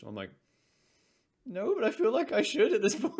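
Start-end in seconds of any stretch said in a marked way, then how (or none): 1.4-3.2 high-pitched, embarrassed reply with a laugh in it; laughing, squeaky-high embarrassment; sheepish admission. Acted. Sheepish admission of not knowing.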